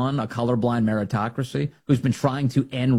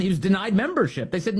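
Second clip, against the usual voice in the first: ordinary delivery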